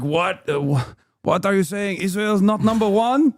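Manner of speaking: mock Israeli accent. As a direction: act incredulous in a put-on Israeli accent. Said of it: "pretty good Israeli accent".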